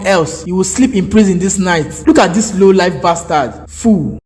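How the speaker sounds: mildly angry scolding down the phone; worked up. Acted. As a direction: tell off a subordinate, irritated. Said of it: "I just get worked up".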